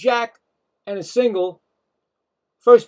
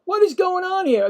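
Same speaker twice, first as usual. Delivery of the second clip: excited disbelief; 8 semitones higher than usual. Real, not acted. Surprised by Mets rally.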